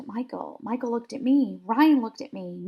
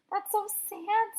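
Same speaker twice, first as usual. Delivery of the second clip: sad; 9 semitones higher, 5 dB quieter than usual. A narrator's reading. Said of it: "who thinks everything is sad".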